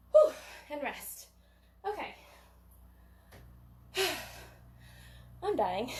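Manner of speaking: panting after the set; breathless, gasping between words; out of breath. Real, not acted. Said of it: "Let me get water and catch my breath".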